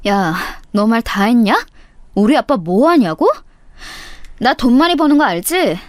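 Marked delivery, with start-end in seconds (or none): none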